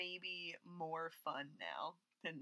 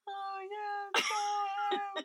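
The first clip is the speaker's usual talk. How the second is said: caught off guard; 11 semitones higher than usual. Retold or imitated. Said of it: "you and I are just like".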